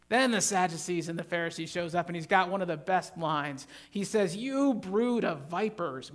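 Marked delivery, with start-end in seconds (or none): 4.4-6.1 mild angry. Retold or imitated. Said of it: "Ooh, I think he's angry".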